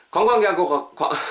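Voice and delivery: stumbling over the words and breaking off; tongue-tied. Real, not acted. Host fumbles into the ad break, tongue-tied. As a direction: trip on the syllables and stop short. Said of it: "I just got tongue tied again".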